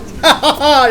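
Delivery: short breathy laugh of relief; relieved laugh. Real, not acted. Gamer laughing after reaching the checkpoint, relieved laugh.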